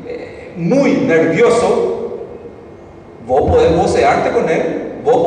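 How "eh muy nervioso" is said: nervioso imitado. Shown as a demonstration. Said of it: "está así".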